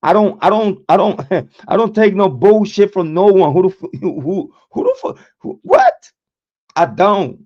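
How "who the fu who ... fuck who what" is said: real laughter breaking up the line; giggling through the mock yell; laughing outburst. Real, not acted. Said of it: "this is me".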